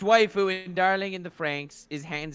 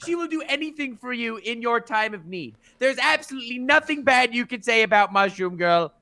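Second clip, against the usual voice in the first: put-on voice. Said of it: "I like that voice".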